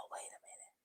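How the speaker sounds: whispered wait a minute. Real, not acted. Vlogger whispering to herself, puzzled over the math. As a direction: breathe it under your breath. Checking the budget total.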